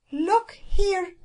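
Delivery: high, loud, indignant cook; outraged cook's cry; furious cry. A narrator's reading. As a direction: burst in shouting angrily. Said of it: "she cried".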